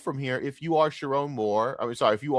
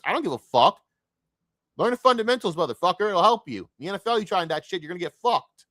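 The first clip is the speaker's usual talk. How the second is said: higher-pitched scolding of the fans; heated telling-off, pitched up; exasperated retort; 5 semitones higher than usual. Retold or imitated. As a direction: argue back at them, exasperated. Acted retort to fans defending bad mechanics.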